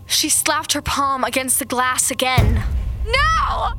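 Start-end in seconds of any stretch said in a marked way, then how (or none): 3.1-3.7 shout. Acted. Narrator screams at attacker.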